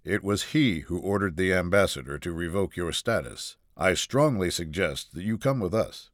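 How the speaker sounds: even, restrained captain; composed. Acted. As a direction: keep your composure against the shouting. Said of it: "maintaining his composure".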